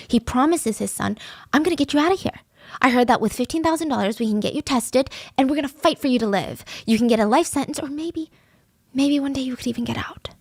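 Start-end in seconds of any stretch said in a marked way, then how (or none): 1.5-10.3 encouraging. Retold or imitated. Father visits his son in jail, encouraging. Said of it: "he's trying to encourage him".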